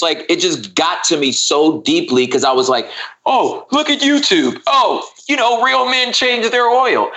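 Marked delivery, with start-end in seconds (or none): 3.2-7.1 high, slow mock-macho taunt; slow, high, hammed-up scoffing; mocking sneer. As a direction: sneer it like a know-it-all tough guy. Mocking voices that shame him.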